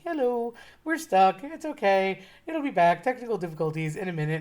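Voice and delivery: lightly imitated Norwegian character voice; a hint of cartoony Norwegian announcer; wannabe Norwegian accent. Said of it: "in his little wannabe Norwegian accent".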